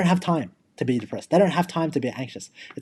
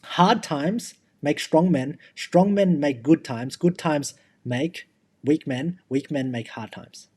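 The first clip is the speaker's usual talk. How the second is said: slow quote; slower than usual. Shown as a demonstration. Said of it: "There was a quote".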